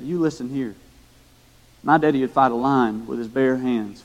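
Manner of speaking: lightly voiced country boy boasting about his daddy; a touch of country twang, as a little boy's brag. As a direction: put on a mild country accent. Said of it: "he said it in his country voice".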